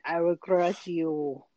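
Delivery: slow mock Russian Drago line; slow menacing Russian boxer; Russian accent. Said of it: "do the Rocky".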